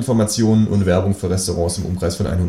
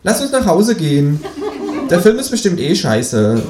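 laughing kangaroo; 8 semitones higher than usual. Acted. Kangaroo urging its flatmate home, high laughing voice. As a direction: grumble gleefully about the film.

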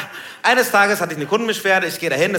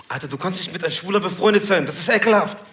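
disgusted gangster customer; 2 semitones higher, faster than usual. Retold or imitated. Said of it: "Da meint der Typ".

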